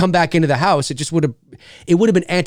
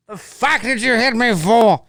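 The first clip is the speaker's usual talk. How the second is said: indignant skit voice; 8 semitones higher than usual. Acted.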